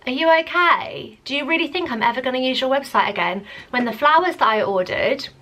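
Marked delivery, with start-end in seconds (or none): 0.1-3.5 incredulous retort. Retold or imitated. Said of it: "I literally was like".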